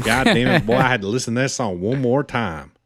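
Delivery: put-on hamming up a Southern country boy accent, half joking. Podcast host showing off his new country talk, light Southern accent. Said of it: "And now I talk like this".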